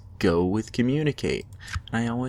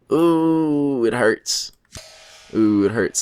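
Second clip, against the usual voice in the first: louder mock anguish over the loss; playful pain; 3 semitones higher, 4 dB louder, much slower than usual. Real, not acted. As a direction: whine that it hurts. Losing the better hand.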